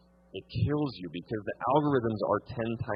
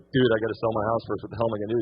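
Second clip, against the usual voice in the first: louder, panicked call to a friend; freaking out; 5 dB louder, faster than usual. Retold or imitated. Seller calling his realtor friend about selling first, panicked and louder. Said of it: "I'm freaking out".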